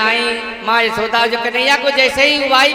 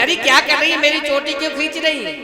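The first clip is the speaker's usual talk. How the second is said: higher-pitched retort, acted quarrel; mock indignant husband; 5 semitones higher than usual. Husband to wife over his pulled braid, mock indignant. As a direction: act out a husband snapping back.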